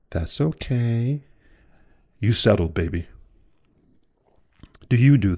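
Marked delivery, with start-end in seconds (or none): 0.1-1.2 slow, drawn-out and higher, giving in; resigned acceptance. Retold or imitated. Pregnant woman to her late partner, slow resigned acceptance. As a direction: stretch it out like you're swallowing the hurt. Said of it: "you go".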